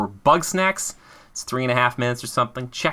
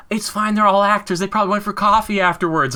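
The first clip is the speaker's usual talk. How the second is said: high, light mom voice brushing it off; breezy mock-reassuring mother; imitating mom; 10 semitones higher, 4 dB louder than usual. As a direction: mom waving it off in a much higher voice. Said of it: "She's like".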